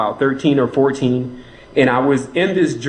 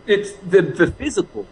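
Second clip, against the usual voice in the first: laughing; 5 semitones higher than usual. Real, not acted. Laughs while explaining beast.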